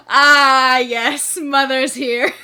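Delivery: laughing through nervous dread; nervous laughter. Acted. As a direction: blurt it out half-laughing, caught out by his mother. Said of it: "he's literally just like".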